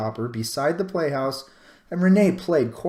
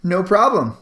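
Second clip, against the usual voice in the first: put-on bright child; 6 semitones higher, 6 dB louder than usual.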